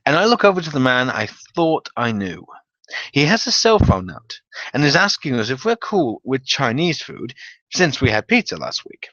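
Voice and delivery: usual speaking voice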